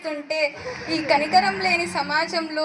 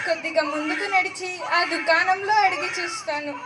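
put-on tearful, raised cries over an abandoned baby; distressed crying woman. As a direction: choke up with pity and alarm. (ఏడుస్తూ ఆందోళనగా మాట్లాడే స్త్రీ)

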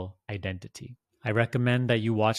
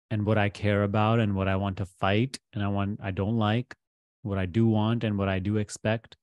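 measured guidance with long pauses; guided meditation; 3 dB louder than usual. Real, not acted. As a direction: guide the listener gently into letting go, pausing between phrases.

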